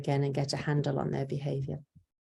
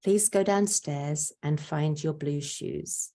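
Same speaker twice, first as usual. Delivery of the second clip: slow, calm request; calm and simple; slower than usual. Shown as a demonstration. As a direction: ask slowly and clearly, no pressure. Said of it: "tell them calmly and simply".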